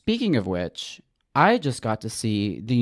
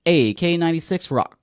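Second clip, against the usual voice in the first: a touch of radio station ident, pitched up; mock rock-radio DJ; 5 semitones higher than usual. Host admitting their intro affectation, mock radio DJ voice. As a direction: play at being a rock station announcer. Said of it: "I'm doing a little bit of".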